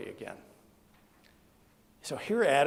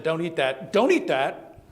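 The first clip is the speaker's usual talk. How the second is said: louder, insistent warning; firm retold command; 2 semitones higher, 6 dB louder than usual. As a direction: lay down the rule, louder on the repeat. God's command in retold story.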